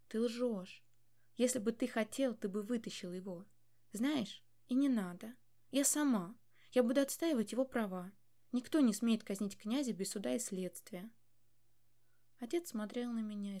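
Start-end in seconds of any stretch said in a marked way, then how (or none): 0.1-11.1 angry defiance. Acted. Furious daughter defies father.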